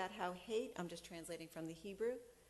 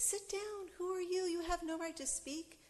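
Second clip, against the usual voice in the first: judge's stern command; 11 semitones higher than usual. Retold or imitated. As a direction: bark it like an angry judge. Judge silencing her in court.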